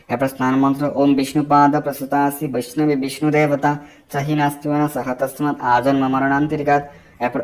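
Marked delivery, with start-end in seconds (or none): 0.9-6.8 measured devotional recital; mantra recitation. Acted. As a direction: intone the mantra as a prayer.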